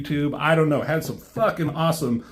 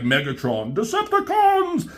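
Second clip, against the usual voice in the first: battle cry; 8 semitones higher than usual. Retold or imitated. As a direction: bellow the call to arms. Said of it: "He's like".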